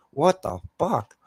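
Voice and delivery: high, slow stretched disbelief; incredulous. Real, not acted. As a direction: drag out the outrage in disbelief. Outraged at senile driver story.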